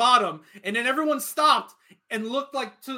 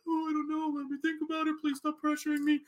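higher, softer mock-helpless voice; dithering official; 4 semitones higher, 6 dB quieter than usual. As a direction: imitate a flustered official buckling under pressure. Acts out the dithering race director.

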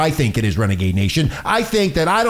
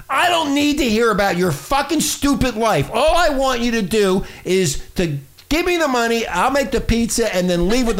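higher-pitched, fed-up rant; irate store owner; 4 semitones higher than usual. Acted. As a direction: scold the customer, pitch pushed up. As store owner scolding customer.

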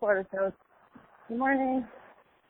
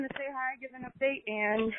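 breathless while walking; out of breath mid-walk; 3 semitones higher than usual. Real, not acted. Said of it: "I sound so out of breath".

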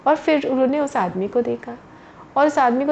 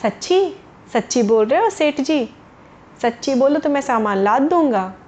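delighted surprise; 2 semitones higher than usual. Acted. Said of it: "उसने कहा".

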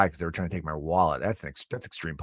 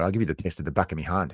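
angry Scotsman; faster than usual. Retold or imitated. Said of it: "like an angry Scotsman".

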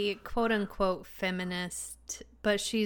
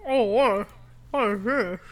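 surprised; 7 dB louder than usual. Acted. Curse spell shoved in mouth.

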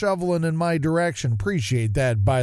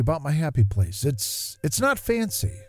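gentle reflective reading over music; nostalgic story narration; 3 semitones lower than usual. Acted. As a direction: read it like a fond memory. Reads a nostalgic essay over music.

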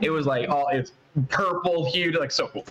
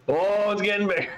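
mock alarm; 7 semitones higher than usual. Joking about an animal looming larger up close, escalating mock alarm. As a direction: play up the comic panic.

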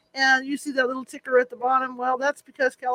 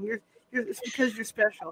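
put-on gentle, softer kids' TV host; lightly voiced soothing TV neighbor; Mister Rogers voice; 5 dB quieter than usual. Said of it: "I'll do my Mister Rogers thing".

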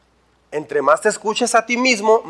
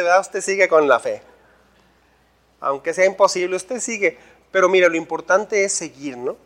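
mock pitying admiration; 2 semitones lower than usual. Doubters talk to the pastor about his faith, mildly patronizing. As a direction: humour the pastor with doubtful praise.

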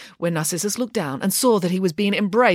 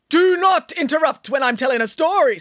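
higher-pitched, mildly scolding reproach; 6 semitones higher than usual. A narrator's reading. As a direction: scold a child who interrupted. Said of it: "scolded Nanny Piggins".

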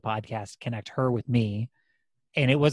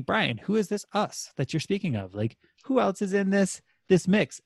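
curious listener voice; 7 semitones higher than usual. Retold or imitated. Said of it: "doing a really good job with the two personality thing".

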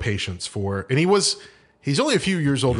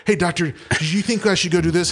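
lightly voiced junior doctor, pitched up; eager junior doctor; 6 semitones higher than usual. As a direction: imitate a hovering trainee asking permission, higher voice. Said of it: "these little doctors would be always hovering around".

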